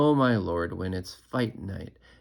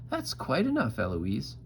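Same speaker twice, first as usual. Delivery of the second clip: mimicking; 4 semitones higher than usual. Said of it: "And I say".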